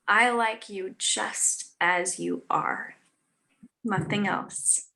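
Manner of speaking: put-on slow and gentle, as to a sleepy child; tender bedtime words. The perfect thing to say.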